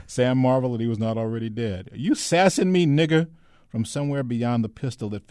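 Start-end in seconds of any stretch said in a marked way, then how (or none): 1.9-3.3 high, loud, agitated challenge; worked-up young soldier's raised voice; high and shaky. A narrator's reading. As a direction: pitch it up high, as if short of breath. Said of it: "high and shaky".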